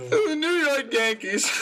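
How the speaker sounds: high, slow mock Australian accent; high put-on Aussie voice, drawn out; imitating an accent. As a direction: parrot the Aussie voice to tease him. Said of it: "That was really good".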